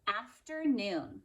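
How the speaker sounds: Afternoon said slowly; slow announcement. Shown as a demonstration. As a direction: draw out Afternoon a little. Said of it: "Last one".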